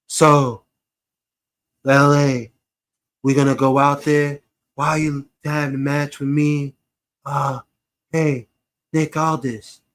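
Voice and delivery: halting, drawn-out delivery with long pauses; slow Melo. Acted. Mocking a wrestler's promo to the co-host, slow and halting. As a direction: talk painfully slowly, stopping between phrases. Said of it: "if he starts talking that slow shit".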